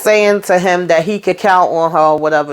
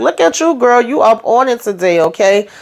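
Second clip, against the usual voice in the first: put-on much higher, delighted "look at you, girl"; impressed cheer; 5 semitones higher than usual. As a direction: hype up a friend, voice jumping high. The speaker praises her coworker.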